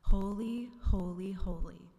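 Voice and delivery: loud, ringing cry of "Holy"; shouted praise. A narrator's reading. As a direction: proclaim it loudly, as if calling to each other. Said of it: "They shouted to each other".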